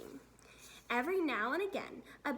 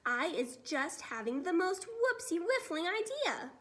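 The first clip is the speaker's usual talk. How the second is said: excited giant; 5 semitones higher, 3 dB louder than usual. Acted. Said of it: "he cried".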